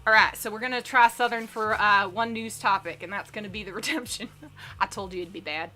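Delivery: lightly put-on, self-conscious Southern accent; bad Southern accent. Shown as a demonstration. Streamer reading a news topic to chat as a joke, bad Southern accent. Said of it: "really bad Southern accent".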